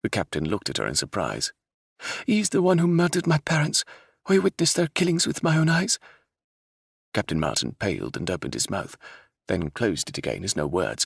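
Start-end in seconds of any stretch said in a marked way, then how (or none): 2.3-6.0 raised, loud bitter accusation; bitter princess voice. Acted. Princess reveals who murdered her parents, bitter. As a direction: accuse him with fierce bitterness.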